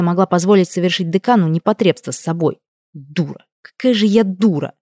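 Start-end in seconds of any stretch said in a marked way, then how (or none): 2.9-3.4 much softer, almost to herself; muttered self-reproach. A narrator's reading. The heroine scolds herself quietly over the kisses. 3.6-4.7 fuller voice, stress on какая; bitter self-reproach. A narrator's reading. The heroine berates herself aloud for her weakness.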